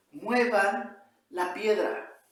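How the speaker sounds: slow, loud, forceful order; angry command. Acted. Angry Jesus orders those standing at the tomb, angry slow command. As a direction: command them firmly, drawing out each word. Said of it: "Está enojado. Jesús está con lágrimas en los ojos".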